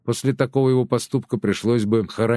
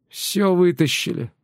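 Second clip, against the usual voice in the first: higher, slow grieving report; mournful; 8 semitones higher than usual. A narrator's reading. Woman in cap tells Nelli of the theft, mournfully. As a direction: let the loss weigh on each word. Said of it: "горестно сообщила ей та".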